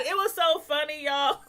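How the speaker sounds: high voice breaking into laughter; amused laughing. Real, not acted. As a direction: start to crack up while talking. Cracking up at the show.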